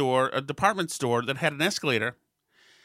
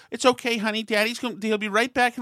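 higher, sing-song comforting tone; mock soothing to child; 6 semitones higher than usual. Stranger soothing the daughter, mock-sweet higher voice. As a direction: coo at the little girl condescendingly. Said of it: "and she's saying".

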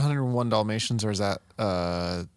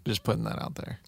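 whispered aside; 5 dB quieter than usual. Real, not acted. Aside after confident claim.

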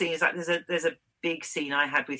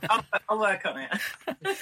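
laughing promise; 7 semitones higher, slower than usual. Real, not acted.

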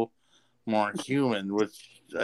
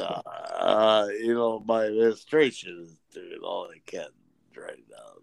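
politician voice; 3 semitones lower than usual. Retold or imitated. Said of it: "You sound like a fucking politician".

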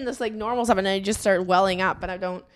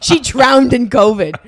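laughing; 7 dB louder than usual. Real, not acted. Repeats joke through laughter.

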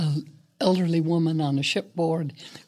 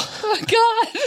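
embarrassed oh God; 5 dB louder than usual. Real, not acted. Embarrassed by praise.

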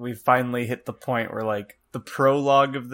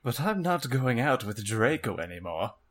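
Vampire. Acted. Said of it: "said Vampire".

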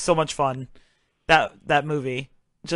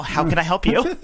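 professional voice. Retold or imitated. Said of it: "She's all professional".

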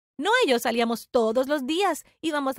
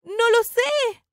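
high, drawn-out, raised voice; distressed reply; 9 semitones higher, 5 dB louder, much slower than usual. Acted. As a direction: answer helplessly, loud and slow. Se defiende tras el grito. (respuesta angustiada, aguda y alargada)

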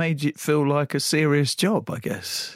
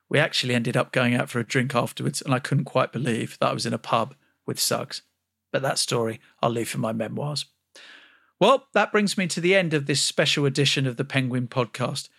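ordinary talk, nothing marked

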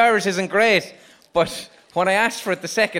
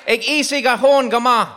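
loud, higher call of the Irish words; shouted Irish phrase; 5 semitones higher, 7 dB louder than usual. Retold or imitated. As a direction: shout the phrase out like the crowd did. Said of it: "What was it?".

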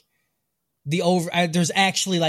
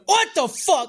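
baffled outburst; 12 semitones higher than usual. Retold or imitated. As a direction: throw your hands up in disbelief. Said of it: "I just picture him going".

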